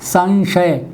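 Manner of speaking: संशय said with a nasal before श; pronounced sanshay. Shown as a demonstration. Teacher demonstrating the anusvara before श to students. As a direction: say संशय as san-shay. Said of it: "यही उच्चारित होगा संशय".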